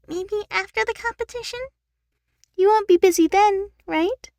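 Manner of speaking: Eleanor, pleading. Acted. Eleanor begs Brittany for after the competition, pleading. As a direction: push hopefully for a promise.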